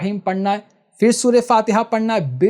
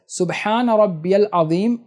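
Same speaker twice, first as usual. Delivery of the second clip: unhurried tasbih; slower than usual. Shown as a demonstration. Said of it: "آرام آرام سے پڑھنا ہے".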